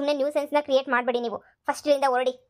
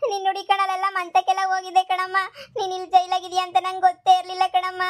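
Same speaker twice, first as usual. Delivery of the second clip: tearful, higher voice; crying; 4 semitones higher than usual. Acted. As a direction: speak through sobs to her mother. Daughter weeping at jailed mother.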